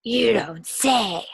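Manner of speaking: slow, dry put-on; deadpan it; dry sarcasm. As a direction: Miss Swamp mocking the principal. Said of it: "said Miss Swamp".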